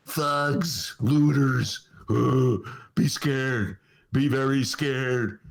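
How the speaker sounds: slow, ominous mock campaign voice; mock Trump fearmongering. Host mocking Trump's campaign message, slow and ominous. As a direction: drag it out like a scare ad. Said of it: "He's gonna say".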